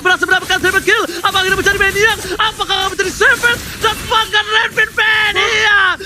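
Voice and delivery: hype caster. Real, not acted. Caster hyping kill streak.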